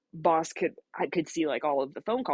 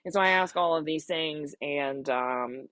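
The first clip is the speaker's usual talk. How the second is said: usual speaking voice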